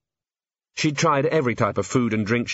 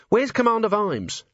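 urgent question; 11 semitones higher than usual. Acted.

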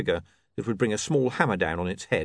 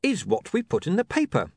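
The speaker's voice; 13 semitones higher, slower than usual. Acted. The speaker explaining.

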